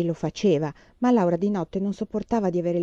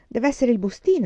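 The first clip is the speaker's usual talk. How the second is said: sudden idea; 5 semitones higher, 4 dB louder than usual. Acted. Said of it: "esclamò".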